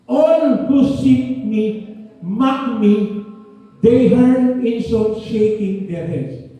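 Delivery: scripture reading. Real, not acted. Quoting Psalm slowly.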